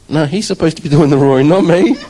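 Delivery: half-laughing indignation; loud protest. Retold or imitated. To the church, retelling his own roar, loud and high protest.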